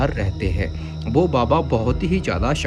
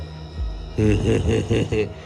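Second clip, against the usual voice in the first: evil cackle. Acted. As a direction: cackle like a hag. Witch cackles. (चुड़ैल की हंसी)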